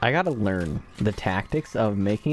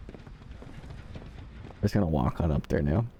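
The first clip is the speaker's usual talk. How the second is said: low, soft voice; 4 semitones lower, 6 dB quieter, slower than usual. Pretend. Playful strolling voice.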